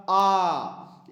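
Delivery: आ held long. Shown as a demonstration. Teacher shows long आ to students. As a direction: draw out आ. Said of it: "ज़्यादा समय लगाना होगा".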